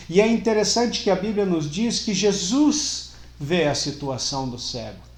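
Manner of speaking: loud, insistent pulpit delivery; impassioned preaching. Real, not acted. Preacher to congregation on not seeing God in suffering, impassioned preaching.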